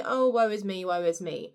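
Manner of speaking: hammed-up wailing lament; mock self-pity. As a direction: play the woe-is-me victim, half joking. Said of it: "that woe is me person".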